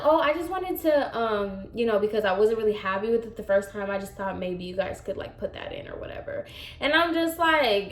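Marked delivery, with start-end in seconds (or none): 0.0-6.5 mock client trailing off into softer, quick excuses; passive aggressive. Client excusing a free request to her stylist, passive aggressive. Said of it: "I don't like your tone".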